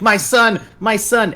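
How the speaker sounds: high, loud hammed-up wail; mock crying parents. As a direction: imitate grieving parents, over the top. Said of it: "you hear these people crying".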